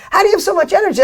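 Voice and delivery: high, loud amazed asking; amazed question. Retold or imitated. Fan backstage asking the speaker, high and amazed. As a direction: ask it like you can't believe the energy. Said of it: "people are like".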